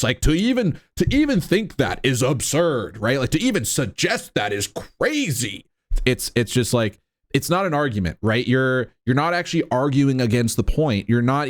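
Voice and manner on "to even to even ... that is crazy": mildly mocking, with pitch swoops on key words; mock incredulity. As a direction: imitate someone dismissing it as ridiculous. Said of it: "that tone of voice".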